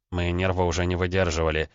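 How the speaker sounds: plain reading voice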